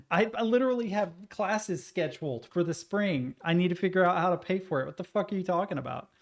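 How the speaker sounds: fast, exasperated complaint; frustrated rant. Retold or imitated. Continued rant at the system.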